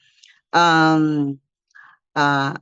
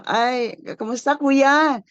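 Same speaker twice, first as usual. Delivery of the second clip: lifted, chatty hello; friendly greeting; 4 semitones higher, slower than usual. Acted. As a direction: greet someone you pass, pitched up. Acting out own greeting to strangers.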